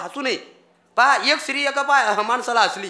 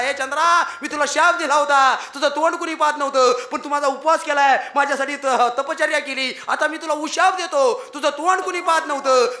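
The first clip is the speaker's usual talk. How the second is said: lightly acted god's proclamation, higher than usual; गणपतीचा उशाप; 3 semitones higher than usual. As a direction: pronounce it emphatically as a god granting reprieve. गणपतीचं चंद्राला उशाप देणं. (किंचित उंच आवाजात देवाची ठाम घोषणा)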